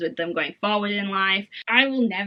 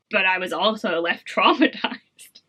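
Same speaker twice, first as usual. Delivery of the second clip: laughing whisper. Real, not acted. Joking about being traumatized.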